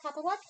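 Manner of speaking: Catholic stressed on the first syllable, questioning; unsure pronunciation. Shown as a demonstration. Host stumbling over the word, Catholic as CATH-lick. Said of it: "Is it Catholic or Catholic?".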